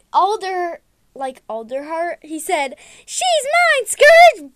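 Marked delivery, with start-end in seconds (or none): 3.0-4.5 high, very loud play yell; mock challenge shout. Alderheart challenging Scourge over Velvet, high playful shout.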